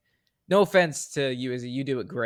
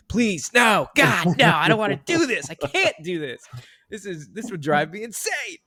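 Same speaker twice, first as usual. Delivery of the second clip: high, loud pleading outburst; hammed-up panicked begging, pitched way up; mock screaming; 7 semitones higher, 5 dB louder than usual. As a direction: act out an inner scream of desperate refusal. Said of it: "I'm screaming".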